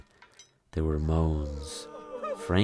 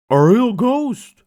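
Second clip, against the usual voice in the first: high, loud, slow frightened cry; panicked cry; 11 dB louder, slower than usual. Acted. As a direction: wail it in terror. Goose panicking.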